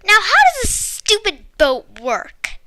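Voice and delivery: a touch of a frustrated yell; boy yelling at his stubborn boat; mild yell. A narrator's reading. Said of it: "I heard him yell".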